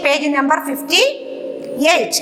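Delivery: stretched out, page number fifty-eight; very slow repeat. Shown as a demonstration. Teacher repeats the page number for the class, very slowly. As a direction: drag each word so slow pupils catch it. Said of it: "announcing page to class".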